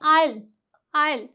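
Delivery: "आयल" as aisle, no s; "आयल" with the s left out; silent S. Shown as a demonstration. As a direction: say "आयल" like eye plus l. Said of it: "यहाँ पे भी इसे क्या बोलते हैं".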